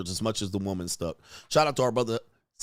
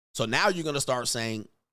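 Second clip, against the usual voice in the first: ordinary delivery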